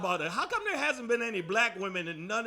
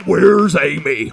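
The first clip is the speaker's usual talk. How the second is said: slow far-off devil; 5 semitones lower, 15 dB louder, much slower than usual. Retold or imitated. Devil calling for the old girl.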